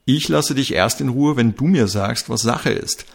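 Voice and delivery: detective calling out to his teammate; calling out firmly. Acted. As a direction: call it after him, refusing to back off. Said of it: "rief der Kommissar".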